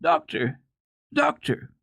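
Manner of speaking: child calling out high and loud through mock sobs; sobbing call. A narrator's reading. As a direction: call after him, high, through acted tears. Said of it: "called between her sobs as loudly as she could".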